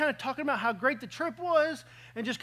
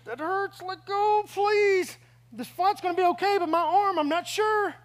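mock pained plea; 4 semitones higher than usual. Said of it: "my eyes are just trying not to cry".

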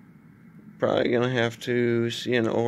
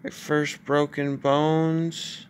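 drowsy post-surgery mumble; groggy after anesthesia. Real, not acted. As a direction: speak groggy through a sore jaw. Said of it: "I just woke up from anesthetic".

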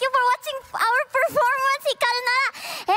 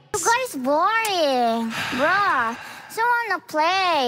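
whiny complaint; 5 semitones lower, slower than usual. Real, not acted. Whining to keep playing.

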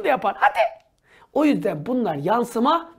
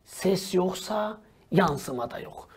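slow dictation; 2 semitones lower, much slower than usual. Shown as a demonstration. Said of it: "Notunu al".

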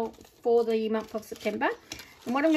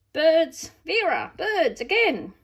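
mock exasperation; 6 semitones higher, 6 dB louder, slower than usual. Real, not acted. Mock despair at bird papers.

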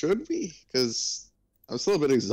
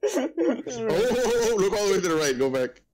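excited; 10 semitones higher than usual. Real, not acted. Spots something in the roster.

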